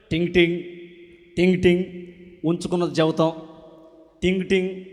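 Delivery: a hint of a street fortune-teller's sing-song cry; lightly voiced fortune-teller calling out. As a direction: hawk fortunes down the road.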